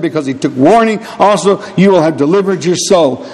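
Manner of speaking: solemn reading of the verses; scripture reading. Acted. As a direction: read the Bible passage aloud with gravity.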